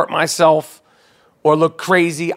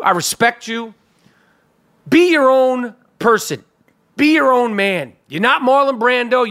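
fired-up rant; 5 semitones higher than usual. Real, not acted. Ranting at Johnny Depp.

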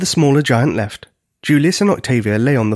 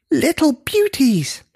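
high, drawn-out admiring cry; slow, high-pitched giant bellow; gleeful bellow; 13 semitones higher, slower than usual. A narrator's reading. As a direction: crow over your catch. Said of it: "bellowed at them".

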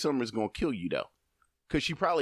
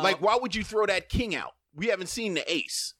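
higher-pitched, exasperated challenge; temperamental card player; 5 semitones higher than usual. Acted. Spades player calling out a partner's card, temperamental. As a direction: scold a partner for a bad play. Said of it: "y'all get really temperamental about that".

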